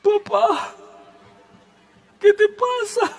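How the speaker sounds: put-on high, light child's voice, half laughing; little son's voice. Small son asking his praying father what's wrong, high child voice. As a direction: play the small boy worried about his dad. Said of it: "Juan Diego estaba muy pequeño".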